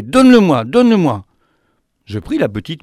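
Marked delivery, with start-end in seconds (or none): 0.0-1.2 plus aigu et plus fort, avide; réclame l'oiseau comme une enfant; impatient begging. Acted. She begs for the bird. (elle réclame l'oiseau, impatiente et avide)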